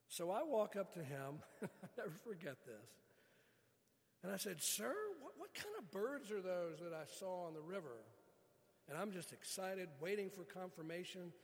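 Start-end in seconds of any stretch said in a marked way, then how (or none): 4.6-8.0 high, eager question to the bus driver. Retold or imitated. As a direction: ask it bursting with excitement. Asking the rafter excitedly.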